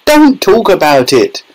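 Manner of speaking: high-pitched distressed wail. A narrator's reading. Mother cannot bear husband's grim remark, high wail. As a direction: wail it high, begging him to stop. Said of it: "wailed Missus Teavee".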